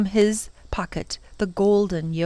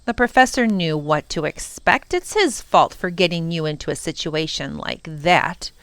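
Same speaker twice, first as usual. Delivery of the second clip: nonchalant villain; 2 semitones lower than usual. Acted. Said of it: "nonchalantly crossed one of his legs".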